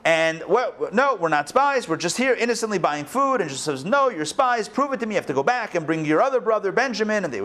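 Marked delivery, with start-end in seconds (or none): 0.5-3.4 higher-pitched, mildly acted denial; pleading protest. Brothers to Joseph, denying they are spies, pleading protest. 3.8-7.2 high-pitched mock accusation; insistent accusation. Joseph to his brothers, demanding proof, insistent accusation.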